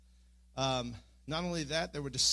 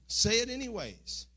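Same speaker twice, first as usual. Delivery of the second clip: higher, louder insistent command; firm command; 7 semitones higher, 5 dB louder than usual. Retold or imitated. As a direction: press him to keep speaking. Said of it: "And the Lord kept saying".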